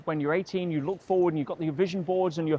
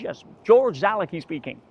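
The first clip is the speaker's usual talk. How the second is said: a louder, booming phone greeting; imitating George Zalicki; 8 dB louder than usual. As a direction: mimic a big man answering the phone grandly. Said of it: "He talks like that".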